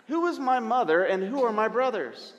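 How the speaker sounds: a light, hammed-up New York accent; Jesus in a New York accent. Jesus answering the crowd, in a mock New York accent. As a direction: ask it like a New Yorker, half-joking. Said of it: "Sorry for the terrible accent".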